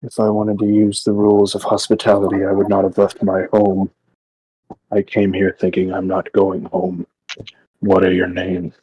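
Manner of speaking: slightly deep, measured character voice. Acted. Adventurer answering fae about hospitality, lightly deepened voice. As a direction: speak a touch low and firm, without meaning aggression. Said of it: "non-aggressively with a deep voice".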